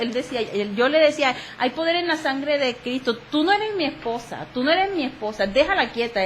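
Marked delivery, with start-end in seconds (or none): 1.6-6.2 rebuking prayer. Retold or imitated. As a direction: command the spirit to leave.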